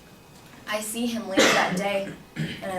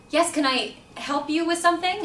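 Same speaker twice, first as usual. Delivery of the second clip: higher-pitched, guarded politeness; retold polite query lifting upward; polite wary question; 7 semitones higher than usual. Student to the man at the door, politely wary.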